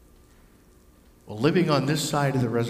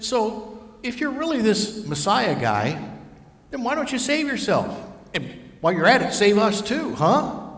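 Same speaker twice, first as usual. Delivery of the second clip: taunting, raised and loud; mocking criminal; 7 semitones higher, 4 dB louder than usual. Criminal on the cross taunting Jesus, loud and jeering.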